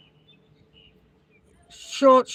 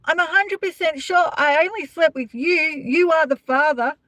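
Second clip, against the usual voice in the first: a hint of a sure young woman, slightly higher; confident guest; 5 semitones higher than usual. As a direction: mimic her certainty. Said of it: "these chicks would be like".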